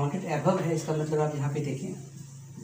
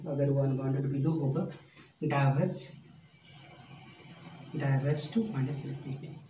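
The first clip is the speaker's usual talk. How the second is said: slow and deliberate, word by word; slow dictation; much slower than usual. Shown as a demonstration. Teacher dictating a theorem to students, slow and deliberate. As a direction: spell it out slowly for notes.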